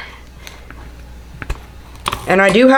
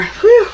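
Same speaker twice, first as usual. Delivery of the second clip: breathy high whew from bending over; strained high whew; 14 semitones higher than usual. Real, not acted. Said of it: "Bent over".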